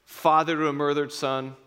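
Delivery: Maximus vow. Retold or imitated. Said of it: "And he says".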